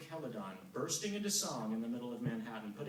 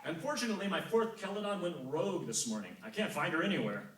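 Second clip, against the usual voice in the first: complaining god; 4 semitones higher, 4 dB louder than usual. Acted. Apollo complains about fourth singer.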